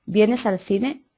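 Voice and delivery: "¿Vienes al cine?" lento, subiendo al final; pregunta directa. Shown as a demonstration. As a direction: pregunta de ejemplo dicha despacio con subida final. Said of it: "la pregunta se hace directamente". (pregunta directa lenta con entonación ascendente)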